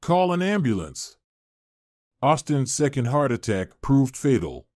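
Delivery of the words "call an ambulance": understated panic, rising at the end; frantic call. Acted. Mother-in-law calling her son for an ambulance, mildly frantic. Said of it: "Mia's frantic scream rang out".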